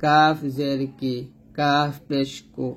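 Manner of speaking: slow recitation with a light k in কাফ; unhurried syllable drill, কাফ drawn out with a thin consonant; thin kaf drill. Shown as a demonstration. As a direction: keep the k of কাফ thin and forward. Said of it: "পাতলা করে আমরা উচ্চারণ করবো".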